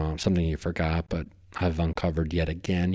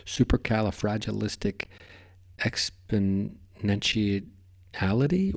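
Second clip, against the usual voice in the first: silly drawn-out word; slower than usual. Real, not acted. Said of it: "put me into a super silly mode".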